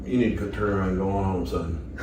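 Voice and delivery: a hint of a gruff officer; stern cop. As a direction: cop sending a teen home, lightly stern. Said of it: "The cop was like".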